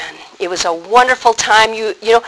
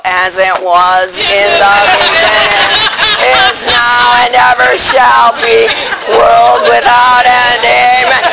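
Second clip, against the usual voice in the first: deflated prayer. Acted. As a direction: drag the words like the joy drained out. Same prayer, deflated back home.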